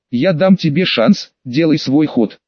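slow, cold and detached. Acted. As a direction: offer it coldly, without interest. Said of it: "холодно сказала".

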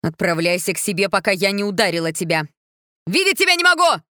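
from stern and loud to a high screaming outburst; queen screaming at her stepdaughter; building to a scream. A narrator's reading. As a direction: drive her from the room, ending in a scream. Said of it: "закричала королева".

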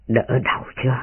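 soft, low tender question; hushed caring inquiry; gentle concern. A narrator's reading. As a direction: ask quietly, as if to someone just waking. Tipsy master gently wakes sleeper.

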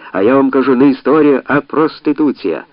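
high, loud haranguing; heated oration. Acted. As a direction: hammer the point to the crowd. Orator harangues the crowd.

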